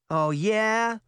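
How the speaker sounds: high, questioning doubt; suspicious. A narrator's reading. Girl doubts the boy's thanks, suspicious. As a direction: lift it high with wary challenge. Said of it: "Sabrina said suspiciously".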